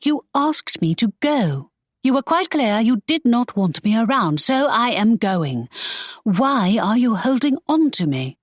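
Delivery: put-on hurt, defensive young lady; Imogen protesting.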